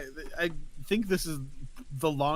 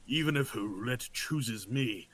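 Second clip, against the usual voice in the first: put-on old man voice; 5 semitones lower, 7 dB quieter than usual. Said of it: "doing old man voice today".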